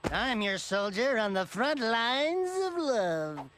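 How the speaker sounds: slow flirty line. Acted. Flirting with soldier woman.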